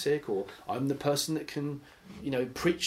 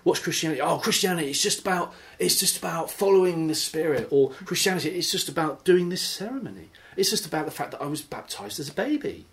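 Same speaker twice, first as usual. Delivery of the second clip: mock answers; 5 semitones higher than usual. Voicing confused answers.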